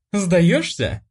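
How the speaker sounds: nasty howl. A narrator's reading. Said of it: "злобным голосом провыла сестра".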